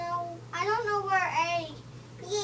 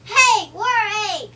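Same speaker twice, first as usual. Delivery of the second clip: shout; 3 semitones higher, 10 dB louder than usual. Pretend. Kids voicing toy characters.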